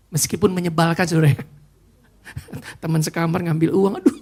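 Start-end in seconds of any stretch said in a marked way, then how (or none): 2.2-4.2 talking through laughter; laughing. Real, not acted. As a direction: laugh at the absurdity while speaking. Joking about the thieving roommate. (bicara sambil tertawa)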